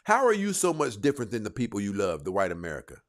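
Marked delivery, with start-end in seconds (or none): none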